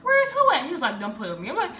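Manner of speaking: high, loud, fake innocence through laughter; mock innocent. Mock innocence to her uncle who asks where the boys are. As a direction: play dumb, far too high.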